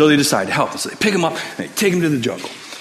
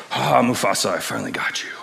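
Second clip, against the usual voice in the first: gloating villain. Retold or imitated. Scar has Mufasa on the cliff, villainous gloat.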